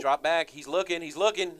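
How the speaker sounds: rising play-by-play call; excited. Real, not acted. Live call of a pass play.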